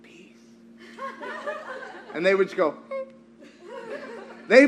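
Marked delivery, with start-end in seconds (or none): 0.0-0.4 barely audible whisper; under the breath. Retold or imitated. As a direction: say it very softly to yourself. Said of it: "under my breath".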